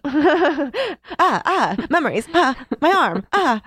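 high, hammed-up pained "ah"s; mock war-flashback cries. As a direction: act out a war wound, badly faked.

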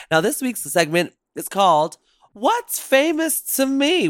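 lilting host announcement; show segment intro. Acted. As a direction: introduce the segment with polished, punchy emphasis.

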